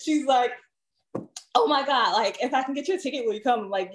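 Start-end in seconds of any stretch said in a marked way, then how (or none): 1.5-3.6 mock the gushing coworker, quickly; light hammed-up valley girl; imitating coworker's valley-girl talk. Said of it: "That's how she talks".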